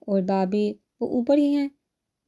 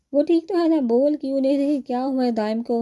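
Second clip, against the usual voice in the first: high, louder panicked questioning; frantic worry; 5 semitones higher, 3 dB louder than usual. A narrator's reading. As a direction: demand news, losing your composure. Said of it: "حواس بہاتا سی سالم سے پوچھی".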